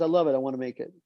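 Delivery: put-on light Israeli accent on the producer's line; a hint of an Israeli accent, quoting him loosely. Retelling the Israeli producer's reply in his accent. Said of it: "in his accent".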